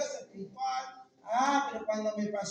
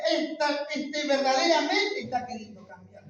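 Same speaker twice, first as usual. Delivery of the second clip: voice of God; 2 semitones higher, 5 dB louder than usual. Retold or imitated. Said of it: "Dios se goza y dice".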